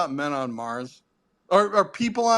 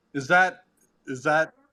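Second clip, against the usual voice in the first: usual speaking voice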